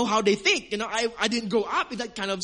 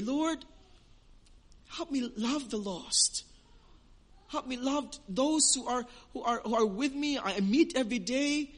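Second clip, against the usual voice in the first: soft prayer; 3 semitones higher, 4 dB quieter than usual. Shown as a demonstration. Models a prayer for listeners.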